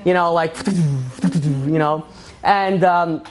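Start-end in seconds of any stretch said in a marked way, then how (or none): 0.6-1.3 short mouth-made belt sound; quick percussive belt imitation; imitated belt noise. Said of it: "sitting there with his belt".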